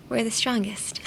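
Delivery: soft, offhand throwaway line; no biggie. Retold or imitated. Host imitates why Geto was like this, offhand. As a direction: toss it off lightly as no big deal. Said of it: "it's no biggie".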